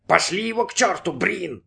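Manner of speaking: high, half-voiced mock yell; wailing yell. A narrator's reading. Inner voice eggs Brin on, high mock yell. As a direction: cry it out high without much volume. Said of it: "завопил голос".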